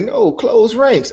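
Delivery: high, slow, loud "close ranks"; firm command. Retold or imitated. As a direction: take charge like the woman did. Quoting the woman taking charge.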